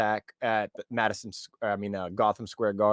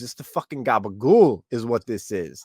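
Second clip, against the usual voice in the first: Jack Hughes quote; 2 semitones higher, 6 dB louder than usual. Retold or imitated. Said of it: "to quote, you know, Jack Hughes".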